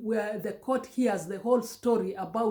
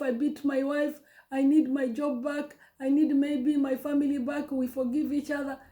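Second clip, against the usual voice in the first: a touch higher, begging with a tearful catch; imitating desperate pleading; 3 semitones higher than usual. Husband begs the boss Steve-O for forgiveness, mock tearful pleading. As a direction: plead like a man who has lost everything, half-acted. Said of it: "this guy is there pleading".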